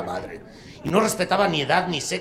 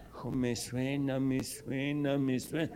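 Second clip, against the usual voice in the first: put-on old man voice; 9 dB quieter than usual. Old man answers punk.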